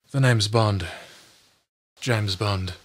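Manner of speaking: cool, suave spy line; James Bond voice. Shown as a demonstration. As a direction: deliver it smooth and understated. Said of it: "announcer and movie trailer voices".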